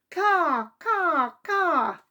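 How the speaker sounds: high squawking bird calls; puffin caws. Acted. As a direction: squawk like panicked seabirds. Panicked puffins crying out.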